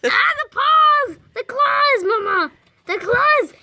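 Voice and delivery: high laughing alarm; excited squeal. Real, not acted. Startled by claws, laughing.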